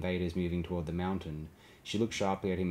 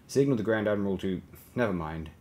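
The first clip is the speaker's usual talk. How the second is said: louder order that breaks off and drops; interrupting himself; 2 semitones higher, 6 dB louder than usual. A narrator's reading. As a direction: start a firm order, then cut yourself short. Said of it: "He interrupted himself".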